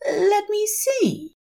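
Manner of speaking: high, slow, fussy angel voice; Aziraphale. A narrator's reading. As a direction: peer at the phone slowly. Aziraphale fumbling phone.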